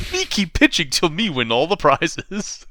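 high, slow mock baby voice; hammed-up baby talk. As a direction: stretch it out like a pretend toddler. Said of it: "I'll use baby talk".

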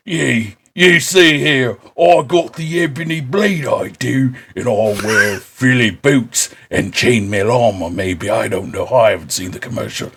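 rambling mock British accent; hammy British knight improvising a monologue; Kit Harington. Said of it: "my Kit Harington impersonation".

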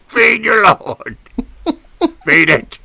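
a hint of a Scottish ad spokesman; Scottish impersonation. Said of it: "my impersonation".

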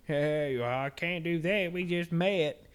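lightly mocked coy protest; mocked flirting. Acts out flirting back and forth.

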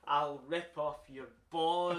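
loud, slow Scottish threat; growing mock-Scottish bellow, drawn out; exaggerated Scottish accent. Co-host mimics Scottish guy threatening Han Solo, thick Scottish accent. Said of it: "so Scottish".

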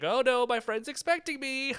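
high-pitched panicked plea, imitating a scared woman; woman trapped in the elevator, mock terrified plea.

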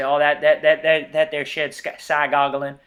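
imitating an Appalachian local; lightly put-on Appalachian twang; Appalachian accent. Shown as a demonstration. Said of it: "you say".

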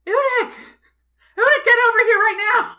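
loud high yell at a window; yelling child's full name. Acted. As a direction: shout the name, furious parent. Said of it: "just yells".

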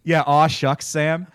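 bashful aw-shucks voice; a hint of a nervous bashful guy. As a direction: play it shy and folksy. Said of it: "he's doing the aw".

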